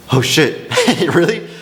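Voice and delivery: mock-stunned, rising high on the last word; retold disbelief with a small laugh; freaking out inwardly. Seller stunned that the couple will pay, freaking out. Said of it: "I'm freaking out".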